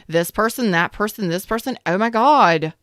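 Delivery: put-on a light valley girl lilt, rising on each person; breezy mock valley girl rundown; a hint of valley girl, barely put on. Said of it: "I sound like a valley girl".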